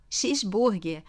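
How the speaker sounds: "cheeseburger" as "xis-búrguer"; pronúncia brasileira. Shown as a demonstration. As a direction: say "cheeseburger" with sh first and an oo in burger. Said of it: "que você vai falar cheeseburger". ("cheeseburger" à brasileira, começando com som de "x")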